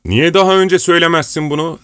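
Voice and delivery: lively, high-pitched exclamation; excited exclamation. A narrator's reading. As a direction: burst out with delighted reproach. Pugaçev exclaims at the betrothal news.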